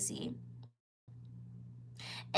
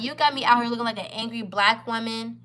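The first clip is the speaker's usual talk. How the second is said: words breaking into real tears; crying while saying it. Real, not acted. Telling the bald guy off, through tears. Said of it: "he sees me crying".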